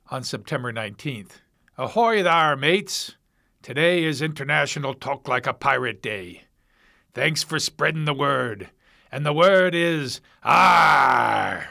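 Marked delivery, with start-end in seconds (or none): 1.8-11.7 hammed-up pirate greeting. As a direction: read it like a jolly pirate hailing his crew. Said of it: "This is from talk like a pirate dot com".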